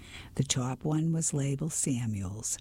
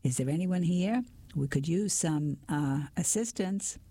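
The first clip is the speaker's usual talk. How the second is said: calling out; 5 semitones higher than usual. Acted. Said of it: "I called out for help".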